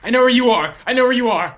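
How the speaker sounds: loud, high mock-villain threat; menacing shout. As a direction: bellow it like a hunter closing in. Taunting enemy in game.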